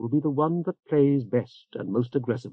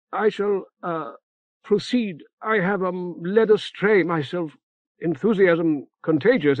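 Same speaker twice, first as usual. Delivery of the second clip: higher, halting speech full of ums and ehs; lightly voiced dithering cleric; fussy hesitant old augur; 6 semitones higher than usual. A narrator's reading. Remora the augur speaks.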